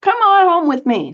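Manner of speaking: lightly voiced Margaret calling him home; mock Aussie woman. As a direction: sing out the invitation like the friendly local. Margaret invites walker home.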